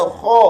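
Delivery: kha rounded toward kho; closed, wrong. Shown as a demonstration. Teacher warns against this reading of kha, closed demo. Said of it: "Jangan dibaca".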